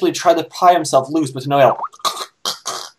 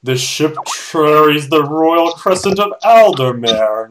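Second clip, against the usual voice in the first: choked Orion voice; 3 dB louder, slower than usual. Acted.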